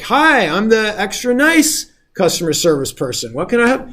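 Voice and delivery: high, sugary mock service voice; extra nice agent. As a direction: play the overly sweet helpdesk agent.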